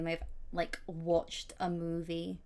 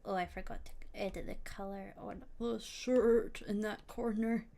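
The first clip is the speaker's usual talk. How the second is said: soft unvoiced muttered whisper; 6 dB quieter than usual. Real, not acted. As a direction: whisper to yourself while working. Whispers to self while editing.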